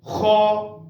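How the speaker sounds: Kha said with a full, heavy mouth; thick full-mouthed Kha. Shown as a demonstration. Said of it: "With full mouth we should pronunciate kha".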